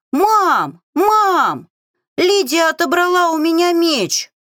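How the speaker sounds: put-on high, loud boy's yell of complaint; a six-year-old boy crying out in outrage; outraged little boy calling for his mom; indignant child shout. A narrator's reading. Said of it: "возмущённо прокричал шестилетний мальчуган".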